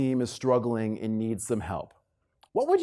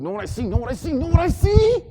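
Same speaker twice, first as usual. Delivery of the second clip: building rhetorical question; 10 semitones higher, 5 dB louder than usual. Acted.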